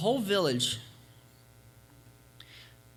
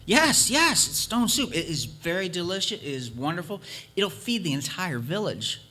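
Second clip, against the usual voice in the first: eager traveler. Acted. Traveler touting stone soup.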